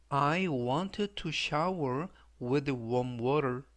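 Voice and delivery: very slow, word by word, "I" stressed; slow, deliberate model sentence; slow read three times. Shown as a demonstration. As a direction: spell it out slowly for learners. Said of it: "제가 역시 천천히 세 번씩 읽어드리고요".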